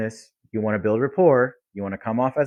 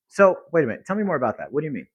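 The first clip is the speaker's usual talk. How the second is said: curious follow-up; 3 semitones higher, faster than usual. Shown as a demonstration. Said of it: "Get curious".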